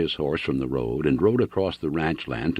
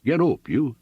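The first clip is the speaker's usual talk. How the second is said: shouting to the mule; 9 semitones higher than usual. A narrator's reading. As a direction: yell at the mule to get going. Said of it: "he cried".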